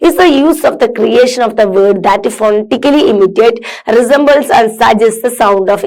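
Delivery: slow, careful read-aloud for students; measured classroom reading. Acted. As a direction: read each word out slowly and clearly. Reads definition aloud.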